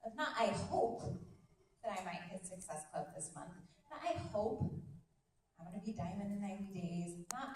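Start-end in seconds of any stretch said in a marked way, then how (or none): 0.4-3.5 tentative wish, dropping off after "hope"; hope it without conviction; wishful hoping. Shown as a demonstration. Coach showing the mindset to avoid, wishful. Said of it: "Do you hear that difference in my voice?". 4.0-7.2 wishful hoping. Shown as a demonstration. Coach showing the mindset to avoid, wishful. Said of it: "Do you hear that difference in my voice?".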